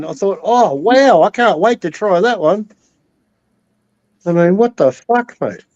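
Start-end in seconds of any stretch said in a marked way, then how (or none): 0.4-2.7 sarcastic eagerness. Retold or imitated. Sarcastic reply to warning ad.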